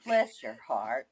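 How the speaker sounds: slow, low drawled "Bless your heart", sugary Southern put-down; sweet Southern jab "Bless your heart". Shown as a demonstration. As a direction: lay on the Southern charm. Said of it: "say it the way you're supposed to say it".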